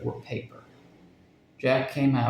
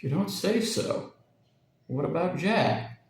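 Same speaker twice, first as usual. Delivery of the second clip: slow, higher, apprehensive man's voice; replayed Charlie imitation; 5 semitones higher than usual. A narrator's reading. Parrot replays Charlie's words to Jack, slow and uneasy. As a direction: parrot repeats the heavy worried voice, slow. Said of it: "a quite astonishing imitation of Charlie's voice".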